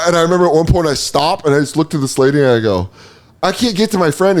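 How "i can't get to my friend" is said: high, anxious plea; nearly panicking; panicked plea. Retold or imitated.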